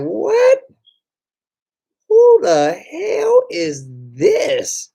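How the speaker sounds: very high, slow, startled falsetto; shocked squeal. Acted. Stunned reaction to chat message.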